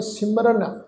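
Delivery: ਸਿਮਰਨ with a plain dental "n". Shown as a demonstration. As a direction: say ਸਿਮਰਨ, tongue at teeth for "n". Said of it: "ਨੰਨੇ ਅੱਖਰ".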